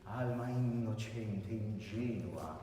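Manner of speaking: innocente with a long nn, slowly; slow Alma innocente ingenua, double n. Shown as a demonstration. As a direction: hold the double n. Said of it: "How many N's in innocente".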